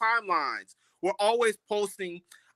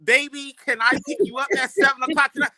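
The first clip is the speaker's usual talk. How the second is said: mock smooth come-on; 4 semitones higher, 5 dB louder than usual. Brothers sliding into DMs.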